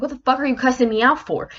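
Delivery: acted-out indignant question; defensive comeback. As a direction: snap back as if wrongly accused. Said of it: "Now I'm getting defensive".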